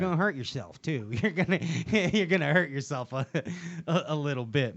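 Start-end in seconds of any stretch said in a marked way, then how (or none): 1.1-4.8 words broken up by real laughter; laughing. Real, not acted. Laughing while teasing guys who bring stiff rods. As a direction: laugh through it, can barely get it out. Laughing at his own joke.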